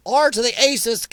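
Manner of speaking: "R to the acist": say the letter R, then "to the", then "acist"; spelled-out censoring. Real, not acted. Self-censoring on stream, "R to the acist" spelled out. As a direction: dodge the word by spelling "R to the acist". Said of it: "probably shouldn't say that on here".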